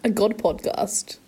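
breathy unvoiced whisper of the phrase. Shown as a demonstration. Repeating the misheard podcast title in a whisper. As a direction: whisper it back as a secret.

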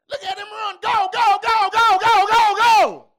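high, building mock sideline cheer; excited fan cheering. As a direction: chant it like urging on a runner. Acting out a cheering football fan.

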